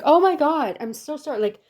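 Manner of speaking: new hire apologizing to the greeter, flustered; flustered apology. Retold or imitated. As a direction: snap back and apologize in a fluster. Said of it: "I snapped out of it and I was like".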